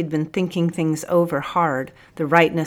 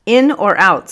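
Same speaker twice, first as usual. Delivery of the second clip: smiling tease; 4 semitones higher, 10 dB louder than usual. A narrator's reading. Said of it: "smiled the sergeant".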